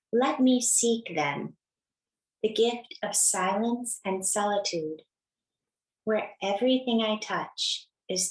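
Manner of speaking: reverent quote reading. Acted. Reads a Merton quote aloud.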